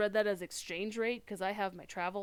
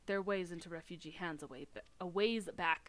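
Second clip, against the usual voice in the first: put-on pirate accent. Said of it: "Lominsan pirate accent".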